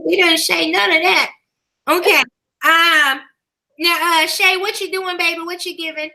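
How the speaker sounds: church mother giving out announcements; lightly put-on church mother, unhurried and folksy; good mother voice. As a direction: read the notices like a church mother addressing her babies. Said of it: "put on my good mother voice".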